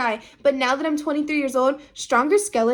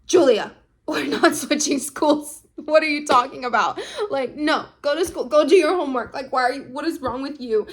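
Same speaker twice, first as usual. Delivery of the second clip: a hint of a dismissive mother, half laughing; scolding mom; 2 semitones higher than usual. Mom waves off Julia's plea, lightly voiced scolding. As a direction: brush her off, lightly mocking.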